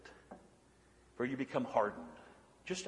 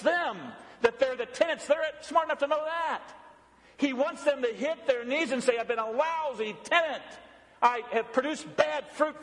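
raised-pitch pulpit appeal; impassioned preaching; 9 semitones higher than usual. Acted. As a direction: press each phrase home like a fervent preacher. Preaching with rising intensity.

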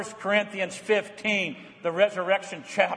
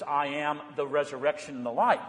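solemn Jesus quote; 3 semitones lower than usual. Retold or imitated. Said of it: "this is why Jesus says".

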